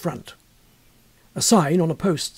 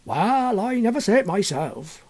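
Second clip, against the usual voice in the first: put-on rustic old local, a bit higher; hedging like a wary countryman; lightly voiced cagey old-timer; evasive villager; 4 semitones higher than usual. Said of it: "was the answer".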